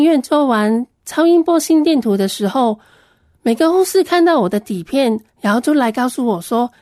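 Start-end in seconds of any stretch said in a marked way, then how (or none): none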